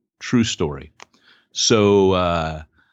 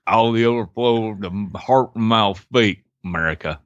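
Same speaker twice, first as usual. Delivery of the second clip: mock Southern drawl. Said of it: "It doesn't work".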